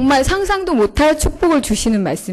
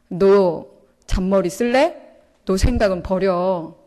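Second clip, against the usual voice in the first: stern God. Retold or imitated. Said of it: "이렇게 얘기하시는 것 같은 거예요".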